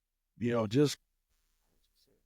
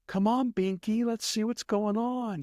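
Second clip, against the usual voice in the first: high singsong lady cooing to her dog; imitated lady; 9 semitones higher, slower than usual. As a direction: put on a much higher female voice, drawn out at the end. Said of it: "It's a lady, and I hear her".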